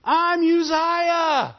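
a proud king brushing off the priests; arrogant king. Acted. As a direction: puff yourself up as the mighty Uzziah. Uzziah voiced again, mocking pride.

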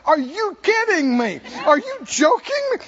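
incredulous mock scoffer, rising high; mocking disbelief at the waste; scoffing. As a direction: sneer like a doubter. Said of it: "people who don't understand, they go".

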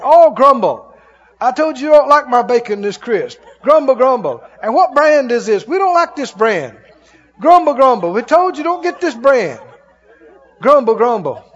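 hammed-up fussy complaint; mock grumbling. Picky eater at the breakfast table, mock grumbling. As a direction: fuss and grumble for laughs. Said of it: "Stumble and grumble over to the table".

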